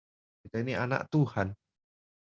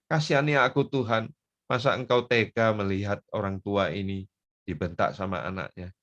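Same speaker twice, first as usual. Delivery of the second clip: raised plea to God, dropping away at the end; pleading for mercy. Acted. Wronged parent begging God for mercy, pleading. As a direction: beg God for pity, starting strong. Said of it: "Minta belas kasihan Tuhan".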